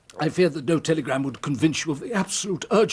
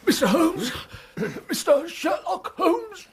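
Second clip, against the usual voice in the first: frantic high cries for Holmes, then slower; calling out; 13 semitones higher, slower than usual. Acted. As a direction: stagger in calling his name desperately. Exhausted visitor calling out, collapsing.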